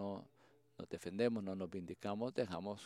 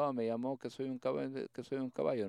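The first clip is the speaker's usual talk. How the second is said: a light, higher-pitched put-on whimper; mock whining; 4 semitones higher, faster than usual. The bride mockingly whines to her mother about being called a horse. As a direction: pretend to complain to mom, hammed-up. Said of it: "llorando a su mamá, diciendo".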